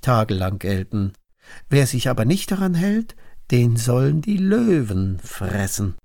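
a touch of ceremonious pleading to a ruler; scheming courtiers. Acted. Princes petition King Darius for a new law, lightly voiced scheming courtiers.

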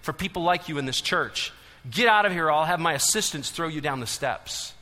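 hostile elder, loudest on get out of here; retold snarl to a shout. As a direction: push him away with the words. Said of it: "the church elder snarled at him".

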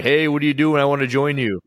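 high-pitched, friendly mock call-out; friendly neighbor yelling. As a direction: call over like an eager neighbor. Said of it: "in a good way".

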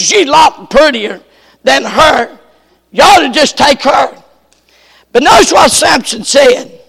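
fervent preaching. Acted. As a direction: declaim the father's words from the pulpit. Preacher reads scripture fervently.

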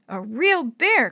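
slow, loud amazed cry; excited exclaim. Acted. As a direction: marvel at it out loud. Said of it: "Chris exclaimed".

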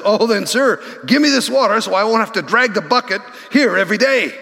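fast sarcastic plea from the woman at the well. Acted. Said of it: "the woman very sarcastically says".

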